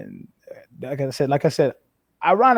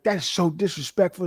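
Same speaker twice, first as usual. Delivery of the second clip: higher-pitched imitation of an indignant coach; mock scolding coach; 5 semitones higher than usual. Coach going off on player for saying huh, mock scolding. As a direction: scold like an offended coach, half in earnest. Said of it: "he just starts going off on me".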